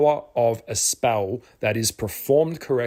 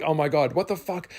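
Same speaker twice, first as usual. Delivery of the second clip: shocked squeal; 5 semitones higher than usual. Retold or imitated. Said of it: "she squealed, like, screamed".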